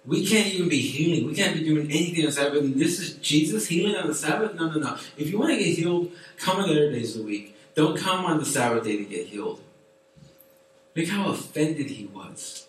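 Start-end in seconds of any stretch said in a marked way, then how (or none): 0.0-9.6 indignant Pharisee. Retold or imitated. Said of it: "But this man said".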